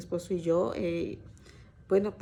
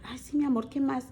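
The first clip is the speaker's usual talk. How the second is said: doting mother; 5 semitones higher than usual. Retold or imitated. Mother doting on teen son.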